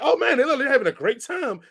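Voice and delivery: laughing. Retold or imitated. Laughing while quoting himself.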